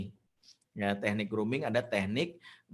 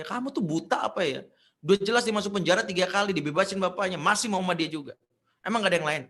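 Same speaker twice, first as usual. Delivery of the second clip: louder, higher scolding rant; acted motherly telling-off, raised voice; nagging mother; 7 semitones higher, 6 dB louder than usual. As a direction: scold your child in exasperation. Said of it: "Gue cuman bisa ngomel".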